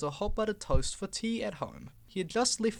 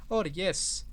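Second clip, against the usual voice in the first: excited. Acted. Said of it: "said Percy excitedly".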